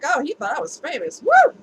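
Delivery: high, stuck-up mock boast; nose in the air, squeal the woo; snooty gloating. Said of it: "my nose would be in the air, like".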